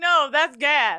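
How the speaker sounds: imitated Jamaican accent. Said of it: "Y'all know we getting a Jamaican accent".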